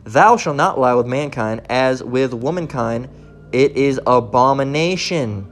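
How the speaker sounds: slow, measured verse reading; scripture reading. Real, not acted. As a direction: read the commandment out deliberately. Reads scripture aloud.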